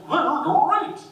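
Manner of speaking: high, loud cereal mascot shout; cartoon tiger voice. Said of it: "He'll say".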